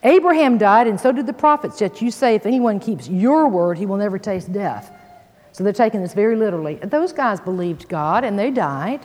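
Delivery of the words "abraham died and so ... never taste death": raised, louder voice of accusers; exclaimed accusation. Acted. Leaders answering Jesus's claim, exclaimed accusation. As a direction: exclaim it as a forceful charge.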